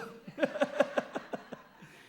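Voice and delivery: giggling high and breathless; high breathy laugh. Real, not acted. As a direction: burst of airy high laughter. Laughs at own mock prayer.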